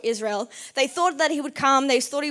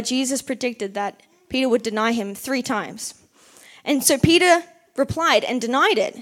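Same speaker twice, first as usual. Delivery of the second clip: ordinary delivery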